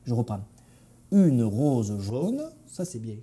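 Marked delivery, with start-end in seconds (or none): 1.1-2.4 very slow, careful Parisian French; deliberate Parisian accent, rising at the end; practised Parisian accent. Acted. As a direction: draw out each word in Parisian accent. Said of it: "je m'entraînais à parler pointu".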